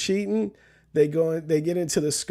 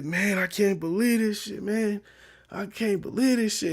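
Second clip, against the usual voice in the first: put-on disgusted boyfriend; 4 semitones higher than usual.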